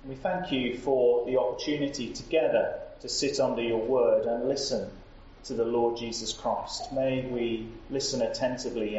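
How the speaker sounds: earnest spoken prayer to God. Real, not acted. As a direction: pray aloud for the church. Leads a prayer aloud.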